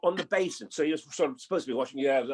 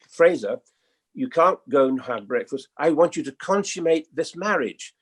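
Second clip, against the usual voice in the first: retold insistence; 7 dB louder than usual. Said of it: "And she said".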